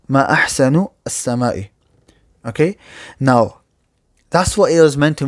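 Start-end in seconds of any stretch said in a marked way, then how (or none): 0.1-1.7 ما أحسنُ السماءِ with a damma on أحسن and a kasra ending السماء, as a question; wrong case ending. Shown as a demonstration. Teacher showing students the daughter's mistaken reading. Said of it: "a kasra is there".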